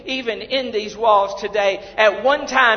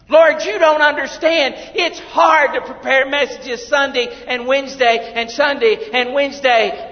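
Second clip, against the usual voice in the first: higher, louder whining protest; complaining to God; 5 semitones higher, 5 dB louder than usual. Retold or imitated. Preacher complaining to the Lord in a loud whine. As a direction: plead your case. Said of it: "preacher voices his complaint".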